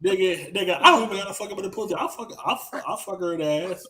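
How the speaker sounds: can't stop laughing mid-sentence. Real, not acted. Laughing along with cohost.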